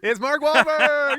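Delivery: big, high, stretched-out game show reveal; excited reveal. Real, not acted. Host revealing the mystery celebrity, excited. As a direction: announce the answer like a prize.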